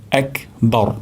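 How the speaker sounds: বর with a thick, rolled r and a short vowel; the correct, heavy বর. Shown as a demonstration. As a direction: say বর with the tongue tip on the palate, full and heavy. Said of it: "বর হবে".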